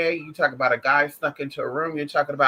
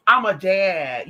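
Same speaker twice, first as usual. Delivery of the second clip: mock black daddy; 4 dB louder, much slower than usual. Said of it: "being a black daddy".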